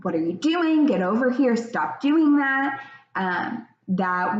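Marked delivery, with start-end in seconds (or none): 0.0-2.8 higher-pitched mock telling-off; reactive scolding. Parent's knee-jerk response to child's tantrum, mock scolding. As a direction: imitate a parent's impulsive reprimand, mildly cross. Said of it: "with that response of".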